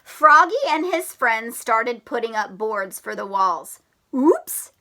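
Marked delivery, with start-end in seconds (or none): 4.1-4.7 surprised Oops. Acted. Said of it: "cried Froggy".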